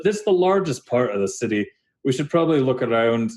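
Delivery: Dahlin. Acted. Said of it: "Dahlin kinda stands there and he goes".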